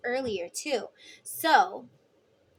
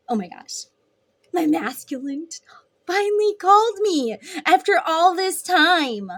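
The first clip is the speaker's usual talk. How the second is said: high, loud giddy squeal of news; thrilled gushing; 8 semitones higher, 7 dB louder than usual. Pretend. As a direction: burst out like a giddy best friend. Femme telling best friend, thrilled.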